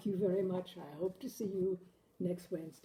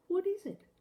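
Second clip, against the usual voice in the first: higher, louder voice of an anxious wife; higher, louder worried wife, slowing on the question; 13 semitones higher, 6 dB louder than usual. Acted. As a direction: press him like a wife who fears he nearly drowned. Wife asks, puzzled.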